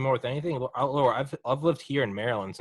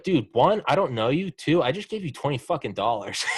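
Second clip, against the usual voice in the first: laughing outraged retort; 4 semitones higher than usual. Retold or imitated. Retelling his retort to the stranger, laughing shout. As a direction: yell it back at him, half laughing.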